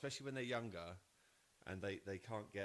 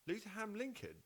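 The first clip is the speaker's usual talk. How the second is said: incredulous; 4 semitones higher, faster than usual. Retold or imitated. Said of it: "I was like".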